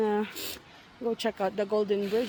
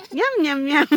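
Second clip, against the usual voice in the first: shark yum yum; 3 semitones higher, 5 dB louder, faster than usual. Pretend. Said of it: "anong sabi ng shark".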